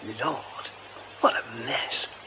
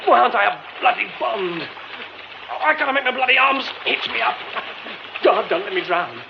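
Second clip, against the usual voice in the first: panic; 4 semitones higher than usual. Acted. Panicking while trapped in muck.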